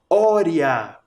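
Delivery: ória said alone, the open stressed ó set apart; rhyme ending. Shown as a demonstration. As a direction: isolate ória with a strong open ó. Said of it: "A vogal mais forte é O".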